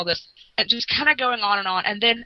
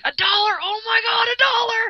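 put-on higher, louder squeal of a delighted kid; thrilled child; 14 semitones higher, 4 dB louder than usual. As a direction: shout it like a little kid who just got a whole dollar. Little self thrilled by dollar.

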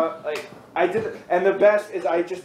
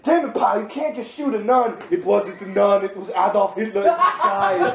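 mock angry chief; 2 semitones higher than usual. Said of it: "what was it, like".

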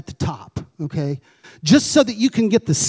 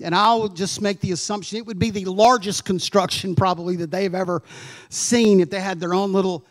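ordinary delivery

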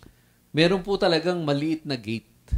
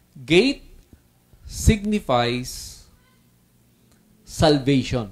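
signifies stretched very slow, louder; emphatic key point; 4 dB louder, much slower than usual. Shown as a demonstration. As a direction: lean into "signifies", drag it out. Preacher's key point, drawn out.

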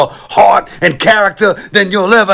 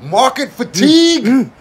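higher yelling drill sergeant; 8 semitones higher than usual. Acted. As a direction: scream orders at the recruit.

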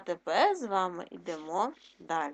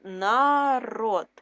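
Народ called out loud and firm; emphatic first reading; 5 dB louder than usual. Shown as a demonstration. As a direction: say Народ loudly, like dictating. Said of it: "word read twice, first loud".

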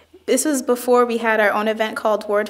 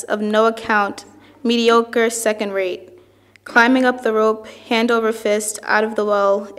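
measured, evenly phrased poetry reading; poem reading. Acted. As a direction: read it as verse, phrase by phrase. Reads another poet's poem aloud.

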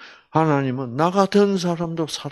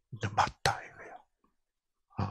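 slow hushed whisper; whispered aside; 4 semitones lower, 12 dB quieter, slower than usual. Real, not acted. Preacher confides to the congregation, whispering. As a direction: lean in and whisper it.

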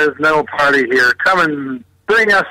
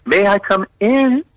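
polite asking; 4 semitones higher than usual. Shown as a demonstration. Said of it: "That's the nice word you should say".

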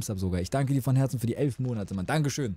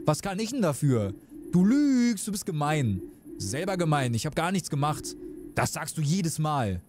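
a lightly voiced childish squabble, sometimes higher; bickering kids; 3 semitones higher than usual. Game children fighting over dessert, lightly bickering. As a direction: play two kids trading insults.

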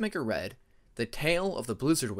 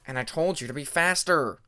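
heated retort; 5 dB louder than usual. Acted. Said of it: "Cliff countered".

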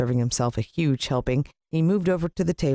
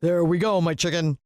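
cooing villain; 5 semitones higher than usual. A narrator's reading. Villain cooing over pan.

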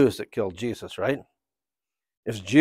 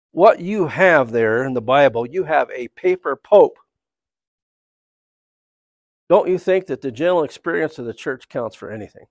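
retold upset minister; 3 semitones higher, 5 dB louder than usual. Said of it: "finally he got upset".

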